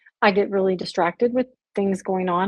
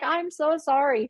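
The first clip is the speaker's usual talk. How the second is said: apologetic; 6 semitones higher than usual. Retold or imitated. Retells apologising to her husband.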